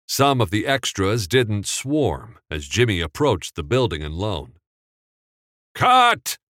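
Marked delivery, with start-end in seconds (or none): 5.7-6.4 very high loud command. Acted. Director stopping the take, loud commanding cut. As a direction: stop everything with one word. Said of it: "Capra commanded".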